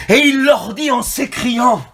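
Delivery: speaking loudly. Real, not acted. Preacher waking up the congregation's spirits, speaking loudly. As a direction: project it to rouse sleeping spirits. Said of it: "pardonnez-moi si je parle un peu fort".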